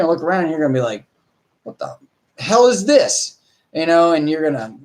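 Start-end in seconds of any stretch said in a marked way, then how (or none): 1.6-3.4 mock shocked cry, high on hell; drawn-out what the hell; shocked owner. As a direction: act the owner stunned at the mess. Owner reacting to wrecked house.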